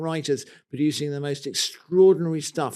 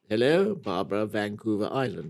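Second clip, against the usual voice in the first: formal BBC newsreader, a little lower; 6 semitones lower, 4 dB quieter than usual. Pretend. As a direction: read it like old BBC news. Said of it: "my BBC newsreader voice".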